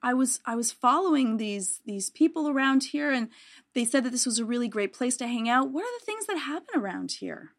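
friendly, slightly halting approach to the guards; lightly acted friendly small talk. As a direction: chat them up, a touch eager. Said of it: "try to be very friendly".

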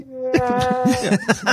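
sound effect laugh. Pretend. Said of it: "Sound effect".

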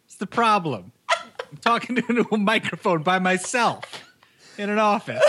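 high, mock-angry rant breaking into laughter; very angry character. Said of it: "he's very angry".

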